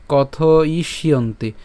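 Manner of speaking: slow কথ ইষ্যন্তি with the sh linked into "yonti"; joined together. Shown as a demonstration. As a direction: draw out কথ ইষ্যন্তি as one word. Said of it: "আর একসাথে বললে".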